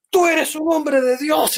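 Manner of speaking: high, slow, drawn-out praise; husband's solemn praise. Retold or imitated. Husband tells the guest he's a man of God, slow and high. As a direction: say it slowly in awe.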